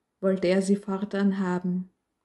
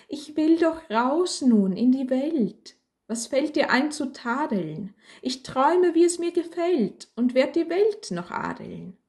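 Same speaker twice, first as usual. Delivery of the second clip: defiant dreaming; 6 semitones higher than usual. Acted. Candle defiantly dreams of the world.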